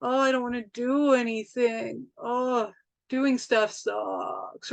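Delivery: slow, sluggish drained voice; mock drained. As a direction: drag it out like all energy is gone. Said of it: "an energy vampire comes along and you're just like".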